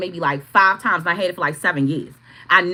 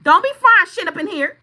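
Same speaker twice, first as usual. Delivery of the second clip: louder, higher laying down the law; stern order; 7 semitones higher, 7 dB louder than usual. Retold or imitated. Ordering the mother-in-law to fry outside, loud and stern. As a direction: warn her off firmly. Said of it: "I said".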